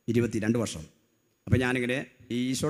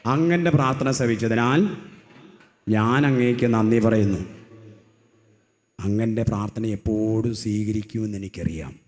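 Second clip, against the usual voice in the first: loud prayer; 5 dB louder than usual. Acted. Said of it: "ഉറക്കെ പറ".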